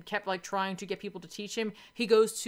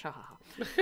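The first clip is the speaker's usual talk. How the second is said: villain laugh; 5 semitones lower, 5 dB quieter than usual. Retold or imitated. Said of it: "he'll twirl his mustache".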